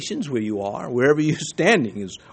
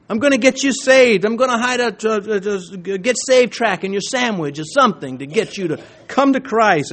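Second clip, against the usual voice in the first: higher, eager mock of a pushy believer; mocking zealot; 5 semitones higher than usual. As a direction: send up the overeager soul-winner. Mocking an overzealous Christian.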